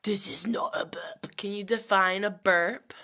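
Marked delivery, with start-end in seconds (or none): 0.0-1.4 breathy whisper. Real, not acted. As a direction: whisper it defensively. Whispered denial.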